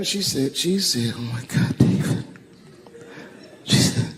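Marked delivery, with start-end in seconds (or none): 1.2-2.2 imitated tearful wife. Wife crying to her husband in the hotel room, mock sobbing. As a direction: barely get it out, as if through sobs. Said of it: "And she's crying".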